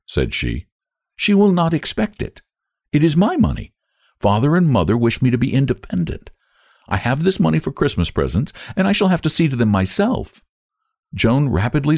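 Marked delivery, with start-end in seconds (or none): 1.1-10.4 put-on higher, earnest young girl; a proud child insisting on her independence; Joan's voice.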